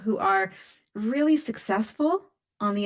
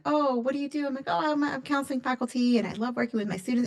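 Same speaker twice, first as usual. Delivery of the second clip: chirpy small talk; 4 semitones higher, faster than usual. Retold or imitated. Acts out small talk about job.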